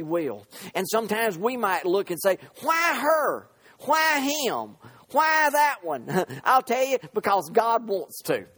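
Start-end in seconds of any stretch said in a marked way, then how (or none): 2.6-6.1 high-pitched indignant questioning; mock protest. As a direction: raise the pitch on each challenge, as if objecting. Voices people questioning God's choice.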